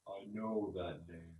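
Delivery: slow, soft, distant tree voice; tree recalling the woodsman; recognizing tree spirit. Acted. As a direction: let it dawn on the old tree.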